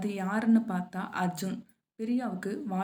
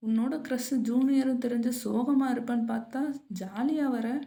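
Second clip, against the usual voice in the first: higher, lightly incredulous friend; teasing surprise; 4 semitones higher than usual. Acted. Kavya sees Priya arrive cheerful after the bad news, teasing surprise. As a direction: voice a friend's mild astonishment.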